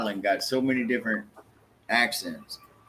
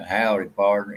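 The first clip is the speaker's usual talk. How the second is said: mock cowboy drawl; 2 semitones lower than usual. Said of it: "like, a cowboy".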